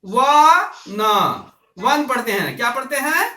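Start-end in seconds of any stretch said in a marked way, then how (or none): 0.0-1.0 व and न said as separate sounds; sounding out a word. Shown as a demonstration. Teacher showing how the word one is read, sounding out व, न. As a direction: break वन into व, then न. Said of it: "इसको पढ़ते क्या हैं".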